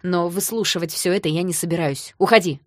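restrained anger ending in a loud order; through gritted teeth. Acted. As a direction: grind it out, then bark the order to leave. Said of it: "процедил он сквозь зубы".

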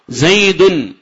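"زيد" as zaydun, final n clearly voiced; tanwin sounded. Shown as a demonstration. Teacher testing students on the nun, "زيد" pronounced zaydun. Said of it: "أنت تنطق بنون".

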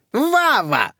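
high squeal of the name. Acted. Old lady squeals at her nephew, high squeal. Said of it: "взвизгнула Зюка".

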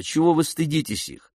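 ordinary delivery

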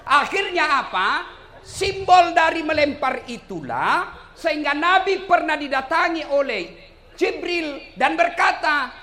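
slow, high, loud pulpit delivery; emphatic preaching. Acted. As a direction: stretch the phrases out to the crowd. Preacher drives home the lesson. (ceramah lantang, lambat dan bernada tinggi)

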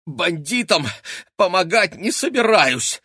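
high, loud strained defiance; straining puff. A narrator's reading. Boy dangling in her grip, puffing with effort. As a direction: puff it while struggling free. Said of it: "пропыхтел Князев".

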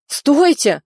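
high, loud cry to stop; shouted plea. A narrator's reading. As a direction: yell stop at the gun. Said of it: "закричал он".

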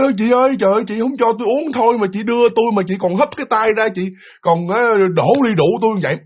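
acted-out grievance; aggrieved protest. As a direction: protest as if wrongly cheated of a drink. Kiên phàn nàn bị hất tay.

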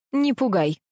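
a touch of scornful dismissal, brushed off; dismissive snort. A narrator's reading. Mother to son who warns her, lightly scornful. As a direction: toss it off with mild contempt. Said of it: "фыркнула Капа".

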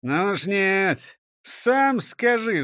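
slow, drawn-out grumble; grumbling. Acted. Robbers on the back seat refuse to guess, slow grumble. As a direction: refuse grumpily, dragging each word. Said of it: "заворчали разбойники".

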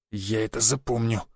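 low, soft grudge through teeth; gritted threat. Acted. Vitalik warning the narrator, low muttered grudge. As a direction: promise revenge quietly. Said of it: "процедил Виталик".

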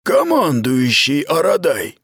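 dry correction. Acted. Aradai corrects Mita's address, dry and slow. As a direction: correct her coldly, weighing each word. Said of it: "поправил он её сухо".

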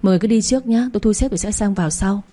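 smooth it over with fake politeness; a mild hint of insincere pleasantry; forced affability. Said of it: "giả lả".

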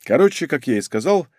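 usual speaking voice

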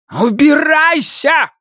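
slow, shouted and spat out. A narrator's reading. Old woman driving the girl away, spitting shout. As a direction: spit the word in her face. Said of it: "выплюнула ей в лицо старуха".

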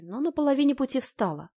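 usual speaking voice

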